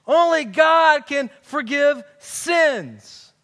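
slow, loud "Only God can forgive sins" in mock outrage; indignant. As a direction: drag it out like an offended scribe. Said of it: "they're ticked off".

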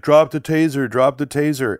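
imitated monotone police command, slightly robotic; robotic cop. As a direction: repeat the order mechanically, like a detached officer. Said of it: "like, robotic".

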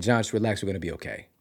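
calm reassurance. Retold or imitated. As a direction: talk a panicking friend down. Calming his crying friend.

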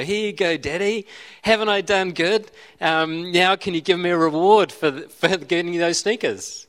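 a lightly voiced little child fishing for praise. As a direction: play the kid proudly showing off. Child hands father sneakers, asks reward.

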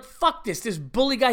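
high-pitched, fed-up outburst; retold exasperated anger; pissed off. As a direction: replay your indignation with the pitch jumping up. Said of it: "now I'm pissed off".

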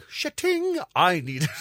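high-pitched hammed-up comeback; mock indignant retort. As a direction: fire back in mock outrage. Imagined indignant row over parking spot.

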